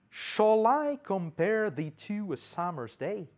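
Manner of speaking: measured, slow recital of an English verse; verse recitation. Shown as a demonstration. Teacher quoting Shakespeare's first verse in English, recited. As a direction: recite the line slowly as a question. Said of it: "o primeiro verso do soneto dezoito de Shakespeare em inglês".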